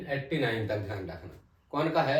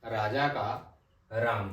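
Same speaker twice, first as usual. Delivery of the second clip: slow emphasis; 3 semitones lower, much slower than usual. Shown as a demonstration. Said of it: "slow stress for memory".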